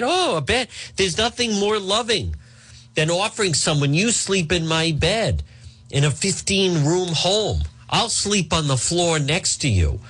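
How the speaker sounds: a hint of a sweet innocent defence; mock a singer. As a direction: parody a sugary denial. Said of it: "That's like a singer being asked".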